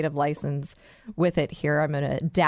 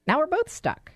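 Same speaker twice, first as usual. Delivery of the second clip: confused dismay; 10 semitones higher than usual. Acted. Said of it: "you're just plain confused".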